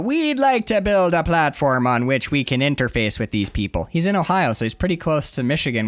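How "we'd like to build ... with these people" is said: deliberate mock-Canadian cop voice; measured police statement, Canadian accent. Sergeant restating to the reporter, Canadian accent. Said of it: "into Canadian".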